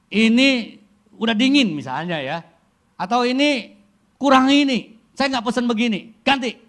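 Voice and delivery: high, loud demanding complaint; picky customer complaint. Retold or imitated. Preacher imitating a fussy customer, loud and demanding. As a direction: send the dish back like a fussy diner.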